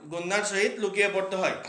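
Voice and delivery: গুন্নার সহিত লুকিয়ে পড়তে হয় rattled off fast as a drill line. Shown as a demonstration. Teacher repeating the rule for students, said fast. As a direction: run the rule through quickly a second time.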